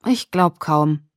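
slow, mildly dissatisfied reply; discontented. A narrator's reading. Girl doubting he will kiss her, mildly discontented. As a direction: say it slowly with a touch of disappointment. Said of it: "Die Unzufriedenheit in meiner Stimme".

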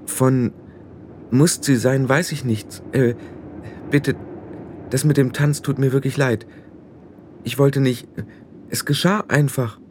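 halting apology, feeling for the words; Tiffany, unsure and apologetic. Acted.

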